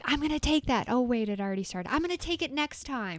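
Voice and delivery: light up at a new idea; eager excitement. Retold or imitated. Spotting Reiki in the catalog, eager and bright.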